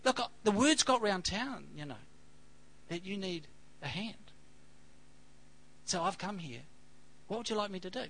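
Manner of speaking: put-on a light New Zealand accent; Kiwi accent. Helper at the door offering to help, in a light New Zealand accent. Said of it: "I'll better do it, Kiwi".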